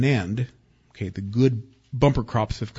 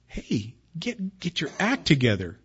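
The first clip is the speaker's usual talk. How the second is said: scolding dad; 3 semitones higher than usual. Retold or imitated. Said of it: "Dad says".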